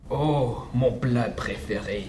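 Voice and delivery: slow, lightly growled monster line; a monster gloating over its meal; growling gruffalo. Acted. The gruffalo growls at the mouse, slow and lightly voiced. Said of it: "Grogna le gruffalo".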